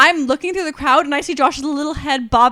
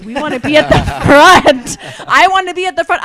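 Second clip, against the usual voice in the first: loud laughing insistence; 6 dB louder than usual. Retold or imitated. Pushing to front of mosh pit.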